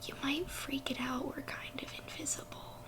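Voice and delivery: soft unvoiced whisper. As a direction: keep your voice down, hidden. Invisible characters whispering together.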